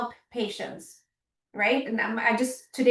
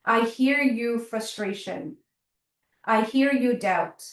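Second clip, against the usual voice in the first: gentle self-talk. Shown as a demonstration. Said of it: "you talk to yourself".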